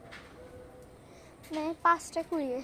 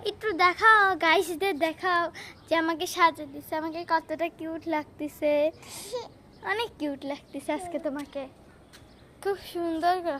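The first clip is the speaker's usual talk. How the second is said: excited coaxing; 7 dB louder than usual. Real, not acted. Coaxing little cousin to show off.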